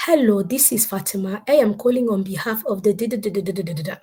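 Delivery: put-on African accent at the speaker's own pitch. Survey caller Fatima introducing herself on the phone, African accent. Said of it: "Then I did my African accent".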